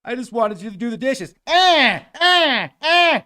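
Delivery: high strained robot stutter; a robot stuck and stammering; glitching robot. Pretend. Owner pleading, robot glitching.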